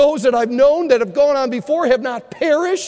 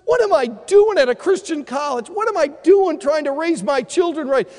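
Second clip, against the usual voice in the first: anguished doubting thoughts; 5 semitones higher than usual. Retold or imitated. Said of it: "Sometimes when you think, like".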